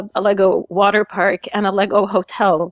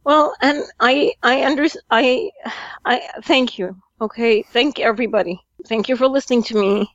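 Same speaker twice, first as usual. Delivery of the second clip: tearful, choked-up thanks; speaking through real tears; crying. Real, not acted. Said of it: "Sorry, I'm emotional. Ignore the crying".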